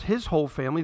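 "his" stressed, then a rise on "family". Shown as a demonstration. Pastor correcting the translation for the congregation, stressing "his". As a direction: lean on "his" in "his whole family". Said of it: "the word should be his whole family".

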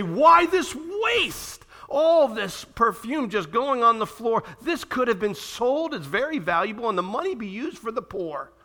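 high, slow, outraged protest; indignant disciples. Retold or imitated. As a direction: voice the disciples' scandalised complaint. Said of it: "And the disciples are indignant".

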